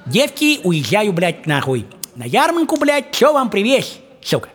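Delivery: father's voice. Retold or imitated. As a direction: call out to the daughters like a jolly dad. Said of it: "вот он говорит".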